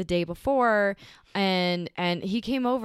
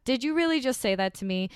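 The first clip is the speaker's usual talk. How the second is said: fast, higher-pitched incredulous question; retold indignant disbelief; 6 semitones higher, faster than usual. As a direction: replay calling out an offensive remark. Retold confronting date's offensive remark.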